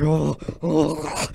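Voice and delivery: mock demon growl; growling noises. Student waiting for the bell, growling noises. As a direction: growl out wordless excitement. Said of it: "making these growling noises".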